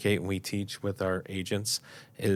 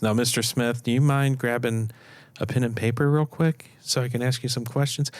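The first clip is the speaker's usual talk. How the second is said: directive agent; 3 semitones higher than usual. Shown as a demonstration. Agent directing a client to grab pen and paper, firm and sure. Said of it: "you're so directive".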